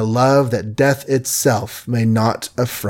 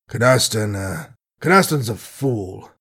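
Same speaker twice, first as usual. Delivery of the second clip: helpless declaration. Acted. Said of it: "he declared helplessly".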